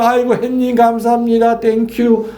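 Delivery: high, beaming thanks to the sun; happy father. Retold or imitated. Priest voicing the father thankful for sunshine, high and beaming. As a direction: gush a cheerful thank-you to the sun.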